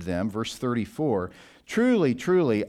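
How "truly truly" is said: solemn emphasis. Acted. Jesus' solemn declaration read aloud.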